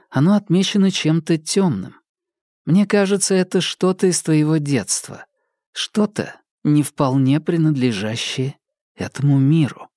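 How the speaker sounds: a hint of an eerie, knowing woman; lightly voiced mysterious woman. A narrator's reading. Claire's quotes read in story.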